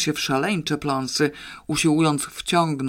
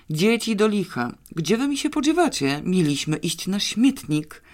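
agitated father calling; 5 semitones higher than usual. Acted. Frantic father searching for children.

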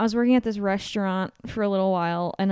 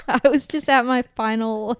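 laughing; 4 semitones higher, 3 dB louder than usual. Real, not acted. Server laughing at her own breakdown story, giggling through. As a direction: squeal of laughter then talking through it.

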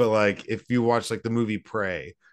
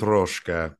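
Russian-accented word, lower pitched; 4 semitones lower than usual. Shown as a demonstration. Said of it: "My, my Russian accent".

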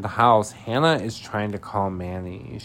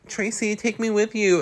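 high-pitched begging imitation; mock pleading; 13 semitones higher than usual. Recapper voices Martha begging Tracy, high mock plea. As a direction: beg in a raised, needy voice.

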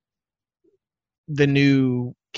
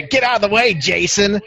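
loud, high-pitched heckle; mock heckler shout; 7 semitones higher, 4 dB louder than usual. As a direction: yell it like a drunk heckler. Acted heckler calling out.

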